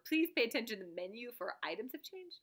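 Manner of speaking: quick take on a recorded operator; automated phone-menu voice. Acted. Recorded woman instructing callers, brisk automated voice. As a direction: rattle off the phone-menu message. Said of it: "when you call, and she's like".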